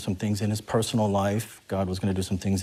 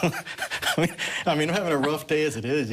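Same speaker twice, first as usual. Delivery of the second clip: higher, whiny you-gotta-be-kidding-me; mock exasperation; 6 semitones higher than usual. Exasperated believer grumbles at God, half-laughing whine. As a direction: playfully complain to God.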